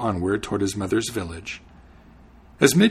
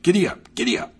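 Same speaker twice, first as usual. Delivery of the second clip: mock shout; 9 semitones higher, faster than usual. Horseman showing Hans how to urge on a horse, mock shout. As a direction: call it out like urging a horse on. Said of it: "click your tongue and shout".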